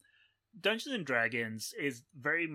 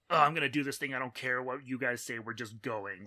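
hot-headed brawler; 7 dB louder than usual. Retold or imitated. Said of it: "they're very hot-headed".

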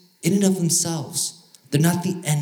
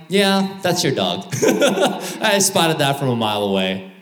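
laughing. Retold or imitated. Acted onlooker remark, laughing.

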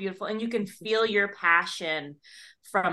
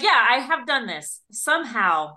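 mock bewildered author; 5 semitones higher, 9 dB louder than usual. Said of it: "You're like".

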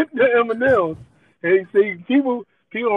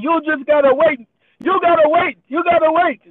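lightly voiced Indian accent, higher and louder; 8 semitones higher, 3 dB louder than usual. Cashier insisting the customer wait, mock Indian accent. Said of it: "my Indian accent".

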